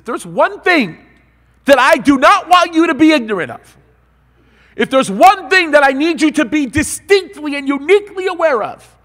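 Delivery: loud, high emphatic preaching; preaching at full force. Acted. Preacher pressing the one thing on his hearers, loud high preaching. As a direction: drive the point home to the congregation.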